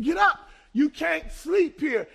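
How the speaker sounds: sharp, rising command, slowing on the last words; slowing irritated command to the man on the step; irritated order. Retold or imitated. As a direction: order him up with rising impatience. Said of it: "I got hostile".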